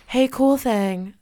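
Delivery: lightly imitating a cool nineties singer; impression of the singer. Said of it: "trust that my impression is perfect".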